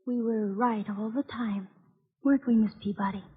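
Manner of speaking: hushed whisper. Acted. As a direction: whisper it through the locked door. Children whisper through the door.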